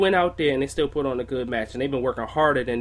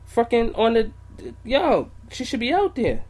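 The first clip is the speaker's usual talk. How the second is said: worked-up rant; 8 semitones higher than usual. Real, not acted. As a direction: vent about the booking, fired up.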